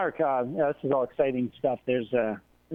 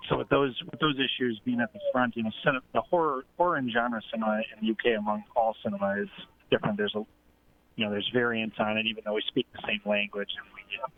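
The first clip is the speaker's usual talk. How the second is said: inside a fishbowl. Real, not acted. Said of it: "you sound like you're in a psychedelic fishbowl".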